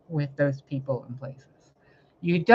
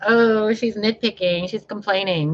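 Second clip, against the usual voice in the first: higher, sneering impression of critics; mocking critics; 5 semitones higher than usual. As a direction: parrot the haters with a sneer. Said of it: "So when you guys are like".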